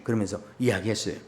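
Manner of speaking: ordinary talk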